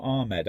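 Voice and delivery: Ahmed said as AR-med; long open "ah" in Ahmed; pronouncing a name. Shown as a demonstration. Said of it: "no one calls him that".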